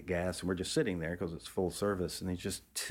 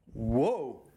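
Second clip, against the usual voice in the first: louder, higher mock yelp of alarm; startled whoa; 5 semitones higher, 5 dB louder than usual. Charlie teeters on the cliff edge, startled mock yelp. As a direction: yelp it like losing your footing. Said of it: "he does a complete windmill with the arms".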